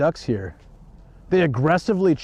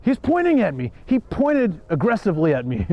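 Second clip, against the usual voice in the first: mocking the lady; 4 semitones higher than usual. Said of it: "and she's like".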